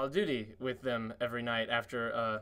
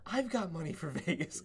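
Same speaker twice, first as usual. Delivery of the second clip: higher-pitched retold echo, laughing through it; playful higher quote of a friend; friend's eager echo; 4 semitones higher than usual. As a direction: echo the line back higher, amused. Retelling friend's matching line.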